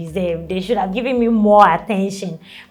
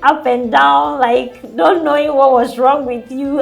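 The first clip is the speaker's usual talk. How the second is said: relieved exclamation; 5 semitones higher, 6 dB louder than usual. Retold or imitated. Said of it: "I was like".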